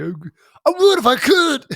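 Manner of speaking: slow, high, mock-tearful longing; lovesick dwarf voice. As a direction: whimper it like a heartbroken lover. Gimli voiced, lovesick for caves.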